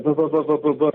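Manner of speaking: imitating nephew's sleep bumbling. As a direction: mimic a frantic half-asleep mumble. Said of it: "he's just bumbling".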